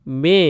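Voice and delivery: মে said with a drawn-out e; lengthened vowel. Shown as a demonstration. Teacher to students, showing the long vowel in মে. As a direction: stretch the vowel in মে. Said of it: "একটু দীর্ঘ হয়".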